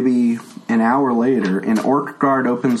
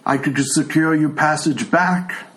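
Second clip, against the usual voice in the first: put-on a frail old man who can't hear; old blind tiefling; 3 semitones higher than usual. Old tiefling NPC dialogue.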